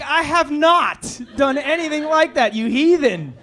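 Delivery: mock prim scolding. Wife calling husband a heathen, primly scolding. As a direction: scold him like a proper lady.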